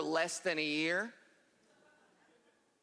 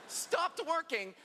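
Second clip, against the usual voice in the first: slowed to a stop, higher; slow malfunction; 8 semitones higher, much slower than usual. Acted. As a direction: wind down like a broken machine. Brain malfunction.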